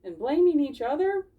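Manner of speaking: lightly teaching; Dawn's voice. Acted. Dawn the fox gently teaching the critters. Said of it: "Dawn said".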